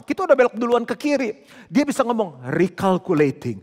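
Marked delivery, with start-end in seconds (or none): 2.5-3.6 lower, emotionless machine read-out; a sat-nav repeating itself in a lower, toneless voice; robotic GPS voice. Retold or imitated. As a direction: drone it like a sat-nav with no feeling. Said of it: "Nggak ada emosi ... nadanya gitu aja".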